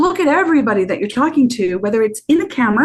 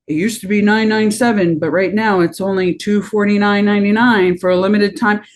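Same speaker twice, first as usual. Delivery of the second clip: infomercial; 3 semitones lower than usual. Retold or imitated. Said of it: "You're not the infomercial".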